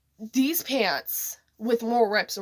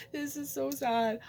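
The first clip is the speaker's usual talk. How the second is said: whispered aside; 3 semitones higher, 7 dB quieter than usual. Real, not acted. Aside while retelling sad dream.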